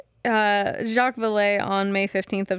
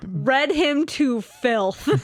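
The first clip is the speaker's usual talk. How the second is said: laughing; 3 semitones higher, 4 dB louder, much slower than usual. Real, not acted. Laughing comment.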